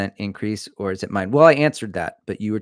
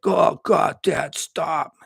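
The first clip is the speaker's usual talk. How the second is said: put-on embarrassed kid; 8 semitones higher, 5 dB louder, much slower than usual. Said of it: "They're like".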